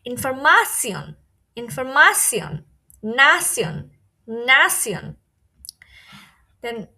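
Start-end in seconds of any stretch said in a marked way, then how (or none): 0.1-5.1 "ইনফরমাসিয়ন" and "নাসিয়ন" ending in "si-on"; German -tion endings. Shown as a demonstration. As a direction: model "নাসিয়ন" with long a and s, not sh. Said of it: "এটার উচ্চারণটা হবে সিয়ন".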